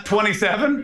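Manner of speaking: mimicking his mumbled Irish twenty-seven; a teasing parrot of his accent; mock accent echo. Comic parroting the Irish guy's age back at him. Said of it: "did you just go".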